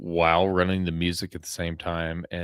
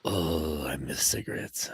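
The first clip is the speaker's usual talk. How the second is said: soft, breathed retold sigh of longing; wistful longing; 3 semitones lower, 5 dB quieter than usual. Retelling himself watching someone smoke, soft wistful whisper. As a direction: whisper it low, as if pining. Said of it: "and I'm like".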